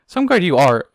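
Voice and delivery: loud scornful huff. A narrator's reading. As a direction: sneer it at her partner. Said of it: "Ariel huffed".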